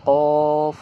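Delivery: কফ said loud, from the back of the tongue; Arabic qaf demo. Shown as a demonstration. Teacher demonstrating the letter qaf loudly, emphatic. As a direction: bark out কফ from the tongue root. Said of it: "জিহ্বার গোড়া ... তালুর সঙ্গে লাগিয়ে".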